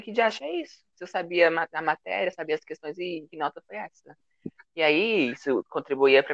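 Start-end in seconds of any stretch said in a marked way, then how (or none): 0.0-4.2 indignant disbelief. Retold or imitated. Retelling shock at a low grade.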